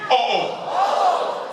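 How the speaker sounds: high-pitched Haitian exclamation of surprise. Shown as a demonstration. Speaker leading the crowd in a Haitian reaction, high and surprised. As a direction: jump the pitch up in startled surprise. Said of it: "when Haitian people are surprised".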